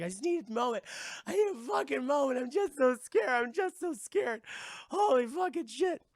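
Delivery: high, loud frightened wail; hammed-up terrified character; freaking out. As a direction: play it panicked, voice climbing high. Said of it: "Francesca's fucking freaking out".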